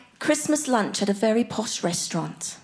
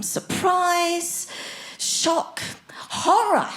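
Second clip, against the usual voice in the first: acted gamut of emotions; 7 semitones higher, much slower than usual. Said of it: "whole gamut of emotions".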